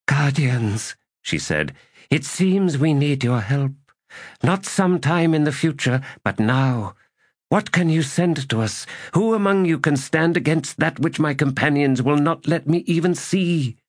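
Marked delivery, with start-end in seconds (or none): 0.1-1.0 higher-pitched woman's character voice; Destriant's voice. A narrator's reading. Destriant calls on unseen guardians for help, raised character voice. 2.1-13.8 high, raised character voice, pleading for aid; Destriant, challenging. A narrator's reading. Destriant demands help from unseen guardians, high challenging voice.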